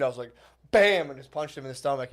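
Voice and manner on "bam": higher, punchy retold hit; sudden jolt acting out a blow; punch sound effect. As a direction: throw the word like a mock punch. Acts out throwing a punch.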